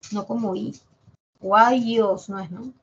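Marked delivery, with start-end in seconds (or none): 1.4-2.5 "guayos" drawn out, louder; slow "guayos". Shown as a demonstration. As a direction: spell out "guayos" slowly.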